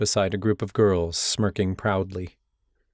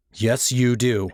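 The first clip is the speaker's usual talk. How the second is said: accusing; 2 semitones higher, 3 dB louder, slower than usual. Acted. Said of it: "I accused".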